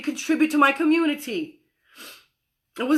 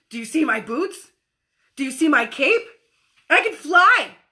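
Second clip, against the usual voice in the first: put-on proud kid; 2 semitones higher, 4 dB louder than usual. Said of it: "The kid shows up and says".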